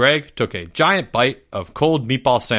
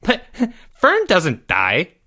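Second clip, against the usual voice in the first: laughing; 7 semitones higher, slower than usual. Acted. The speaker snickers while correcting.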